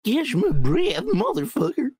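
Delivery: mocking. Mocking friend's words back.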